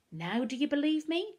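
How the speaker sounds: high, gleeful question; enjoying himself. A narrator's reading. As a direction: ask it with relish, pitched right up. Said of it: "enjoying himself".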